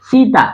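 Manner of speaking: सीता with no weight on सी; don't lean on or stretch सीता; unstressed short sound. Shown as a demonstration. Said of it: "सीता पे जोर नहीं पड़ा". (सीता, बिना जोर दिए)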